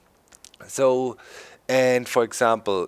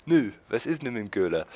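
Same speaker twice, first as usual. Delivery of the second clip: Saxon dialect; faster than usual. Retold or imitated. Repeating the clerk's Saxon question, fast. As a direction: toss off the clerk's Saxon line quickly. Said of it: "the clerk said".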